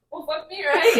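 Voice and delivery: giggling the words out; laughing. Retold or imitated. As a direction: quote said through laughter. Retold quote with laughter.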